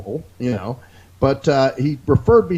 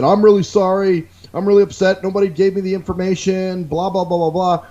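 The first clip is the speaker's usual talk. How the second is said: higher, louder, sucking-up apology voice; mock grovelling apology; 5 semitones higher, 3 dB louder than usual. Imitating Victor kissing up to an annoyed customer, higher and louder. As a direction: lay on the fake sorry for the upset customer. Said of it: "He's kissing my ass".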